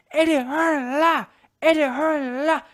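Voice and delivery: high, loud, slow taunting chant; mock shout. Taunting Eddie Hearn, high slow shouted chant. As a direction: bellow it like a gloating crowd.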